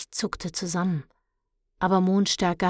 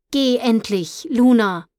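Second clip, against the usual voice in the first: loud, higher, impatient shout; 5 semitones higher, 9 dB louder than usual. A narrator's reading. Mondstärker orders Luna into the fog, shouting. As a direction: yell to send them off. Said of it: "schrie Mondstärker".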